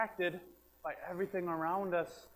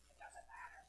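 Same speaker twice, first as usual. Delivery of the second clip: whisper; 21 dB quieter than usual. Shown as a demonstration. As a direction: still whispering. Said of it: "if I'm talking like this".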